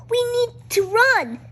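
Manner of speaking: high urgent whisper; frightened cry. A narrator's reading. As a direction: panic but keep it breathy. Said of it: "cried Pip".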